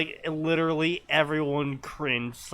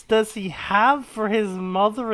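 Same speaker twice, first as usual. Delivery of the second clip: slow, deliberate storyteller; dramatic story reading; 5 semitones higher, 3 dB louder, slower than usual. Acted. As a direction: read it out slowly with dramatic weight. Reads a story aloud.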